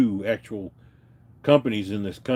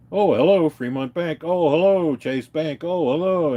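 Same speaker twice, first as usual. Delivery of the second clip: chirpy higher "oh, hello" each time; mock phone greeting; 5 semitones higher, 3 dB louder than usual. Mocking scammers who answer as whatever bank, sing-song. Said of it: "It's like they got".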